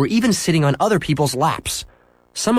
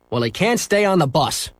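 snapped; 5 semitones higher than usual. Acted. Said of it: "snapped the driver".

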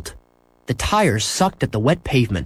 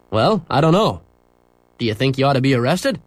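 teasing policeman. Acted. Policeman teasing Henry in the squad car, playful. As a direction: tease the boy gently.

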